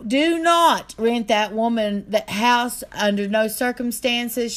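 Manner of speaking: high, slow, loud imitation of a screeching wife; mock her shrieking it down the phone, slow and loud; retold screech. Retelling how the landlord's wife shrieked: high loud screech. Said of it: "I could hear her screeching at the top of her lungs".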